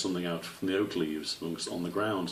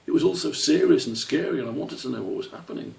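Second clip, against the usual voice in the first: high, halting little squirrel; small child confessing nervously; young squirrel voice; 7 semitones higher than usual. Acted.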